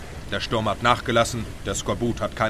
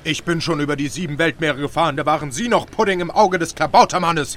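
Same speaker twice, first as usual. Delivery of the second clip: raised captain's rebuke; higher, huffy put-down; indignant scolding; 4 semitones higher than usual. Acted. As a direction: tell off a green sailor. Captain scolds his first mate.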